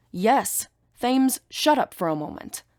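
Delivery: sharp high yell cutting him off. Acted. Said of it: "I yell".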